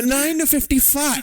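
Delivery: high, slow, cracking up; can't keep a straight face; laughing through the words. Pretend. Old man bit laughing.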